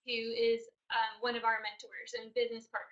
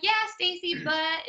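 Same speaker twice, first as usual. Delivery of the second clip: retold whining; 5 semitones higher, 4 dB louder than usual. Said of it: "and I'm whining".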